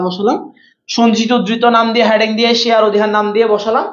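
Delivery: light sermon sing-song with held phrase endings; waz preacher style. Shown as a demonstration. Teacher playfully walking students through accounts, waz sing-song. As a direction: recite the steps like a waz preacher. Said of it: "ওরকম করে ওটা বসালাম".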